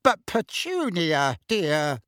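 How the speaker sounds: slow, drawn-out, helpless objection; pleading. Acted. Deflated uncle to his wife, pleading. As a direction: plead weakly, stretching the name.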